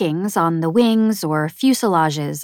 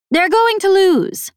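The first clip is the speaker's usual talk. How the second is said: high, loud, boastful snappish alien; 13 semitones higher, 5 dB louder than usual. A narrator's reading. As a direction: brag about your champion, snapping. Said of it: "snappish and vaguely familiar".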